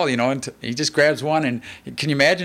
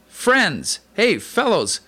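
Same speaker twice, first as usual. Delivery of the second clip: friendly low-key; 6 semitones higher, much slower than usual. Retold or imitated. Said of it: "a little bit friendly, a little bit, uh, low-key".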